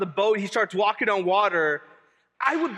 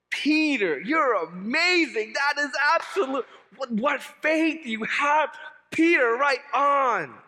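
slow, loud and higher cheering on Peter; admiring cheer; 5 semitones higher, 3 dB louder than usual. Retold or imitated. Pastor retelling his own praise of Peter: slow, loud, high cheer. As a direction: hail him like a hero, stretching each word. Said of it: "I read this and I go".

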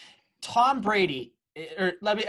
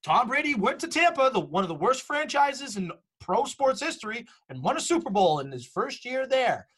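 egotistical Boston fan; 6 semitones higher than usual. Acted. Host mocking egotistical Boston sports fans, high and gloating. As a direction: crow it like an aggravated, smug fan. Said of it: "egotistical Boston sports fans that are gonna be like".

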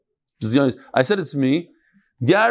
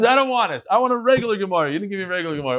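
mock complaint; 3 semitones higher, much faster than usual. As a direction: imitate someone indignantly turning down a gift. Acts out the man refusing.

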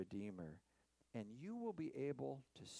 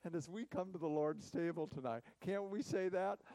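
louder, fervent call to the congregation; rising exhortation; 6 semitones higher, 9 dB louder than usual. Real, not acted. Preacher at the Lord's table, loud fervent call. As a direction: lift them to say it with you.

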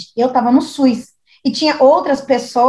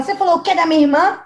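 angry quote; 5 semitones higher, faster than usual. Retold or imitated. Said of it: "Aí ela".

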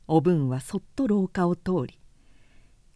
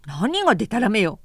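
snapping back; 4 dB louder than usual. Acted. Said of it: "と食ってかかり".

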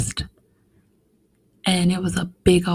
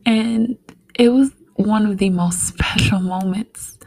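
real tearful hush, voice close to breaking; emotional, half-whispered memory; getting emotional; 2 semitones higher than usual. Real, not acted. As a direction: hold back tears as you remember. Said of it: "I'm getting emotional thinking about it".

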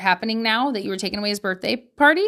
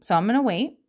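calm gentle parent; 5 semitones lower than usual. Shown as a demonstration. Parent modelling a calm talk with an upset son. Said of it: "The question should be".

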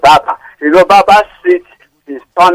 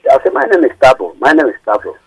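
speaking up; 3 semitones lower, faster than usual. Real, not acted. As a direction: repeat it clearly so the host hears. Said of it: "could you speak up, please?".

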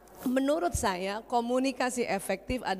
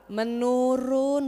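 menurun drawn out very slowly, each syllable weighed; stress on menurun; much slower than usual. Shown as a demonstration. Doctor stresses the word for the audience, menurun slow and deliberate. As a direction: stretch menurun slowly for emphasis. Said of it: "bukan berkurang".

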